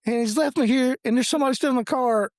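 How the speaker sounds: very high-pitched mock panic; imitating panicked wife. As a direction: mimic a scared wife's frantic phone call. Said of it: "His wife is scared to death".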